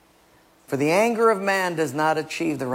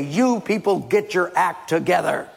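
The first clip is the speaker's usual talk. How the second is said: mock scolding; 2 semitones higher than usual. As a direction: scold them in a raised voice. Acted God scolding from heaven.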